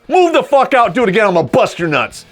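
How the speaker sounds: mock drill sergeant. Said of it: "this is how I respond".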